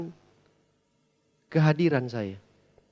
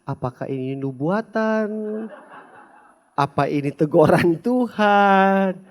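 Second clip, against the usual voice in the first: inner worried prayer; 3 semitones higher, slower than usual. Retold or imitated. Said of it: "saya berdoa dalam hati".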